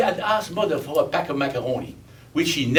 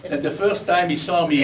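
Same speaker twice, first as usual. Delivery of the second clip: laughing; 4 semitones higher than usual. Real, not acted. Laughing through own story.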